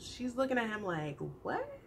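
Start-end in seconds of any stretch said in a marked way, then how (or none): 1.4-1.8 high, incredulous squeal as a mom; hammed-up shock, jumping loud at the end; taken aback. Mom reacting to her son being in love, hammed-up disbelief. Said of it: "taken aback by this news".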